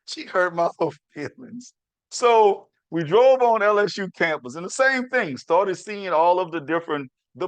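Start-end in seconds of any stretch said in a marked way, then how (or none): 0.1-1.7 laughing mock hurt.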